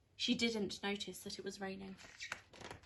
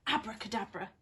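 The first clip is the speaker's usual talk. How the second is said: shouted spell; 4 dB louder than usual. Acted.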